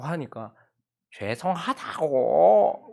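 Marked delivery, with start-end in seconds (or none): 1.2-2.9 slow, drawn-out apology half crying; tearful apology. Retold or imitated. Child apologizes to mom, half crying, drawn out. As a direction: plead sorry through held-back tears. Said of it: "우는 건지 웃는 건지".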